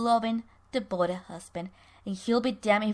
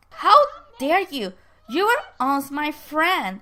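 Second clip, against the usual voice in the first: acted indignant reproach, raised pitch and level; 4 semitones higher, 7 dB louder than usual. Herb confronting a former friend over an accusation, indignant.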